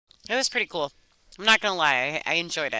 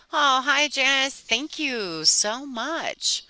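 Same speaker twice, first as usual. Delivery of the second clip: excited greeting; 9 semitones higher, 4 dB louder, much slower than usual. Real, not acted. Thanking a donor on stream.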